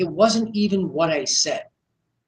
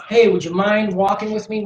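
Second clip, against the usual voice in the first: timid request; 3 semitones higher than usual. Shown as a demonstration. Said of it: "He didn't say".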